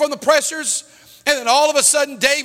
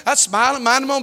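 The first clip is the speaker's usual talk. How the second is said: usual speaking voice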